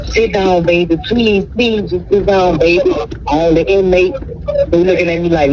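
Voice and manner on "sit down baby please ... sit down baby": put-on pleading old woman.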